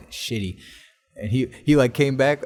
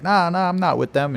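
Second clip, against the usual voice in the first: higher, louder imitated protest; mock denial; 9 semitones higher, 6 dB louder than usual. Friend denies it to security guard, mock denial. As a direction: protest in a raised retelling voice.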